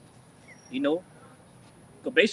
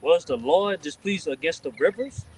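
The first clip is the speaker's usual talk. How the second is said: slow, forceful verse reading; scripture reading; 4 dB louder than usual. Real, not acted. Reading Habakkuk to the group, emphatic scripture reading. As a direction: proclaim each question deliberately.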